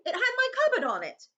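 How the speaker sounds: very high, loud indignant cry; outraged boy insisting; angry. Acted. Harry's angry protest continues.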